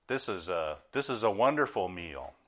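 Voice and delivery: a touch of mock praise for the meal; lightly sarcastic compliment. Pastor imitates a sarcastic dinner remark, mild sarcasm. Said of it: "if you say a sarcastic sentence like".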